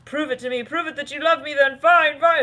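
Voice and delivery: high, loud ultimatum; demanding challenge. Acted. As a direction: push them to prove their love. Channeled demanding quote from partner.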